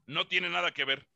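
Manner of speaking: cita más baja, suave y lenta, con sorna; frase burlona citada. Retold or imitated. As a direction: repite la frase del otro imitándolo con burla. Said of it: "voy a usar otra vez una frase que tanto dices". (imitando la muletilla del compañero, grave y despacio)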